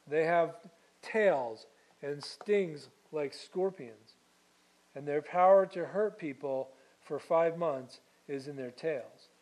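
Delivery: measured, solemn Bible reading; scripture reading. Acted. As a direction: read it steadily to the congregation. Pastor reads scripture aloud.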